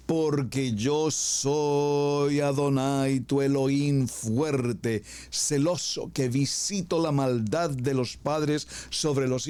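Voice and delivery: slow, weighty reading of the Law; solemn scripture reading. Acted. Preacher reading the commandments to the congregation, solemn and slow. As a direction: read each commandment out as sacred text.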